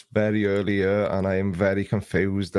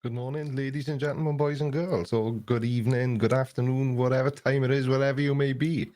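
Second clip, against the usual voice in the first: grand showman's welcome to the audience; announcer greeting; 3 semitones higher, 4 dB quieter than usual. Pretend. Streamer greeting his live chat like an announcer. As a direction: announce it like a compere opening a show. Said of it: "I don't know why I said that".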